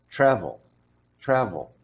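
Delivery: "travel" with a tiny "eh" at the end; schwa demo. Shown as a demonstration. Teacher modeling "travel" for student. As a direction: let a little "eh" close "travel". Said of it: "listen to how I say".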